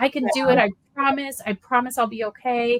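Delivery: acted, unwell, unhealthy-sounding voice. Retelling what Logan told the team, imitating Logan sounding unwell. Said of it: "you could just hear it in his voice".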